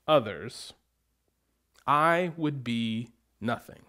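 measured, solemn Bible reading with long pauses; scripture reading. Acted. Pastor reading Corinthians to congregation, solemn measured reading. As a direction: reads the love chapter to the congregation, solemn and measured. Reads scripture passage aloud.

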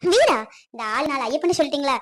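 eager, chatty tout selling his services; a bragging small-town guide hustling a customer; boastful local guide. Acted. Guide Ayyappan offering houses. (பெருமை பேசும் உள்ளூர் வழிகாட்டி குரல்)

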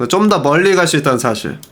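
ordinary talk, nothing marked

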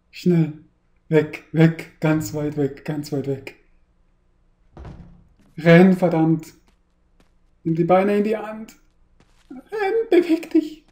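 loud, frantic yells to run; being chased. Real, not acted. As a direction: urge yourself to flee, panicking. Fleeing the monster, shouting.

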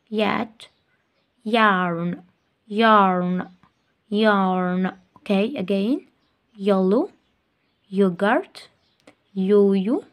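يلو and each word started with a clear ya sound; teacher drills words starting with ya; phonics drill. Shown as a demonstration. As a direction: lead every word with a crisp ya, paused. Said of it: "اللي بتبدأ بصوت الياء".

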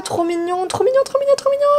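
very high gushing squeal; rising into a delighted scream. Real, not acted. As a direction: squeal it like something is too cute. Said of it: "je hurle".

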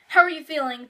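a touch of motherly worry; worried. A narrator's reading. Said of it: "Julie said, worried".

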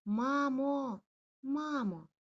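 high, loud anxious calls; calling mum. Acted. Lost puppy shouting for mum, anxious. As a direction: shout for mum running around. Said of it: "гукаючи маму".

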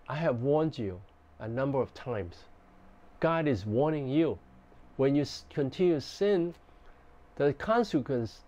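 firm, serious warning without yelling; stern but not shouted warning; heavy way. Shown as a demonstration. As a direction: lay down the consequences sternly. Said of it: "if I want to say in a heavy, heavy way".

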